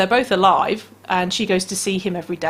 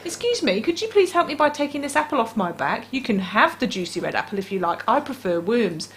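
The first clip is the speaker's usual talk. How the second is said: hedgehog voice; 3 semitones higher than usual. Acted. Voicing polite hedgehog.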